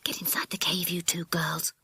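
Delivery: urgent whispered instruction. Acted. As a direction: whisper it to the others in hiding. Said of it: "whispered Jack".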